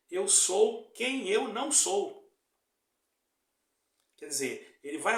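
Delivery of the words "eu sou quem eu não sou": devil's mocking twist, slow and louder in an altered voice. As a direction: sneer it as the devil would. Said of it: "o diabo ... quer que seja assim".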